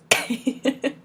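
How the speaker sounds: short high giggle; amused little chuckle. Real, not acted. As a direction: let out a quick, soft laugh. Amused by the hard twister.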